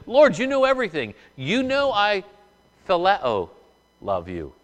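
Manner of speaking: an earnest, pleading cry of devotion; Peter pleading. Acted. Peter's anguished reply to Jesus.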